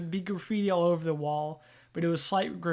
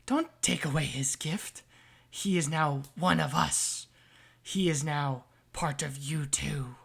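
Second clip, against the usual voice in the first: a patron's voice inside his head, coaxing; slower than usual. Acted. Patron speaking inside Sammy's head, slow and coaxing. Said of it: "You hear".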